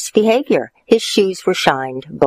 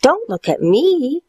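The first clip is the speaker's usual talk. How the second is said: mouth full; 11 semitones higher than usual. Acted. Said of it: "chewed Stuart".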